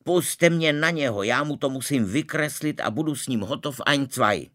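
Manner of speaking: high, loud and itching for a brawl; eager to fight. Acted. Pepek yelling to be let at the boy, loud. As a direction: shout to be let at him.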